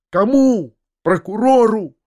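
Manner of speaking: Кому? shouted high and loud; outraged shout. A narrator's reading. The narrator confronts the prince about the prosecutor, outraged shout. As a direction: throw the word at him in fury.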